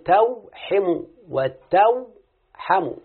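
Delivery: توحم وتوحم said slowly, the two forms set against each other; teacher slowly contrasting توحم and وتوحم; slow contrastive demo. Shown as a demonstration. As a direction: draw out توحم وتوحم to show the two readings. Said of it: "لما بقول".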